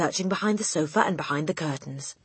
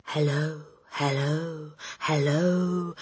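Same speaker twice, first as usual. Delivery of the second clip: parrot voice; much slower than usual. A narrator's reading. Parrot voice from next room.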